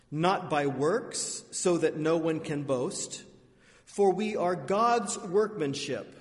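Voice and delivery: many voices in unison. Real, not acted. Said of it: "Please join me in reading".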